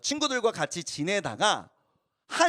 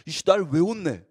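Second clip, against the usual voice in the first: put-on sulky teen grumble. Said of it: "하면서 막 억울했던 거예요".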